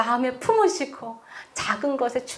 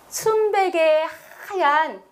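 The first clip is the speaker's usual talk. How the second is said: hushed awe; 3 semitones higher than usual. Real, not acted. Tender climax of sermon point.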